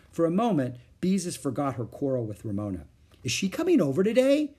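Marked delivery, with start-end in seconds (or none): 3.2-4.5 high eager question; light up with hope. A narrator's reading. Girl asking Mother eagerly about her aunt, high. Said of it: "she asked eagerly".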